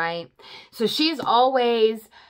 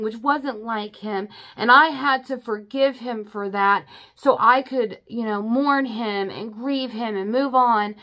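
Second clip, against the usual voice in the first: imitating an angry daughter, higher and louder; retold angry outburst; 4 semitones higher, 4 dB louder than usual. Daughter accusing Evelyn, mock angry rant. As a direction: act out the furious accusation, a bit hammed-up. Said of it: "full on angry".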